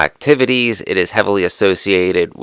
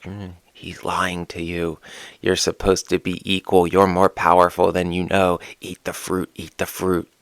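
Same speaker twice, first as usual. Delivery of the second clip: serpent whispering; 5 dB quieter than usual. Pretend. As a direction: coax like a serpent in her ear. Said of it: "the serpent whispering".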